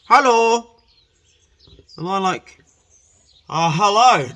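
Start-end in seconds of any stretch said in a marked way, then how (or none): 0.1-0.7 high, loud put-on woman's greeting; imitating a flirty woman; woman's come-on hello. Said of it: "She's like". 3.5-4.3 dribbling hello. Retold or imitated.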